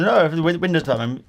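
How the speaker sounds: lightly imitated Indian-accented caller. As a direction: insist in a mild mock Indian accent. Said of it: "he definitely had an Indian accent".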